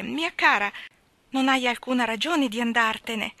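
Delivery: lightly voiced worried mother pleading; Mrs Tulliver, anxious. Mrs Tulliver pleads with her sister, lightly voiced worry. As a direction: hurry to smooth things over.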